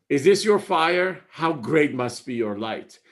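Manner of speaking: stressed, ringing reading of the line; emphatic poem recital. Acted. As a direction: lean hard on "this" like a revelation.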